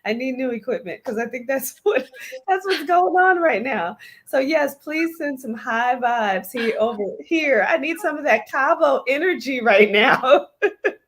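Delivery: garbled robotic sound over a bad connection; words warped like a robot; robotic audio glitch. Real, not acted. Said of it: "you sound like a robot".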